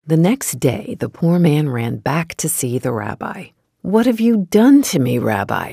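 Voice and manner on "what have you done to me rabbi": high, loud anguished plea; crying out. Acted. Poor man crying out to the rabbi for help. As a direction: cry out to the rabbi in distress. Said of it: "he cried".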